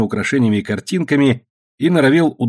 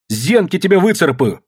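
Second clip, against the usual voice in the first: high-pitched furious threat; angry threat; 7 semitones higher, 3 dB louder than usual. Acted. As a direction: threaten to claw at him. Daughter threatens father.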